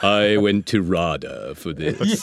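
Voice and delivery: slow, drawling, haughty British thespian voice; Alan Rickman. Retold or imitated. Imagined thespian voice in his head during the audition, slow and haughty. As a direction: drag it out with lofty theatrical disdain. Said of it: "Alan Rickman is just running through my head going".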